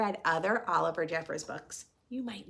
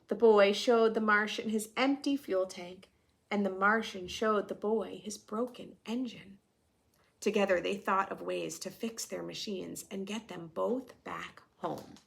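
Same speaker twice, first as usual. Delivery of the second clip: storytelling voice; 4 dB louder than usual. A narrator's reading. Reading picture book to class.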